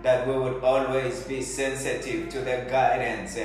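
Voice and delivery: earnest, pleading prayer voice; fervent prayer. Acted. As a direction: pray aloud over the congregation. Leads congregation in prayer.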